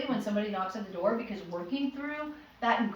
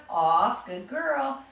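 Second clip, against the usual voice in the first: put-on louder "Off", then a lifted "good girl"; firm then praise; 4 dB louder, much slower than usual. Shown as a demonstration. Trainer cueing, then praising the puppy. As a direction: snap the cue, then praise. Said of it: "as they step back".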